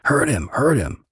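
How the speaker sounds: high, urgent yell of hurt him; screaming. Retold or imitated. Captor screaming orders at the men, panicked yell. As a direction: shout it out in a panic. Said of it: "He was screaming".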